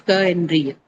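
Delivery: ka and riya split into two separate syllables. Shown as a demonstration. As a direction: break career into ka then riya. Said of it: "two syllables".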